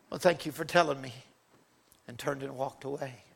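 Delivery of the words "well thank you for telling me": quiet, quick, hushed reply; softly. Retold or imitated. Young woman answering the preacher, soft and quick. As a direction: brush it off softly. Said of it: "just softly said".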